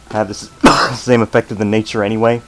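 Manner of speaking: talking while crunching chips; eating chips. Real, not acted. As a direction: mouth full of chips. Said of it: "Sorry ab-, about the crunching".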